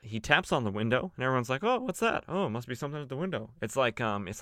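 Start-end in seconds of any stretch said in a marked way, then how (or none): 1.6-3.5 high, fast, clueless goon; dopey henchman voice. Retold or imitated. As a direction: play it like a dim-witted guard, rushing. Thugs react to tapping window.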